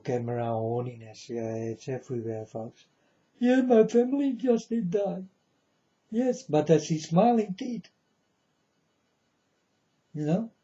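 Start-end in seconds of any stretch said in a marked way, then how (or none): 3.4-7.9 mock mourner. Mocking camera horny mourners.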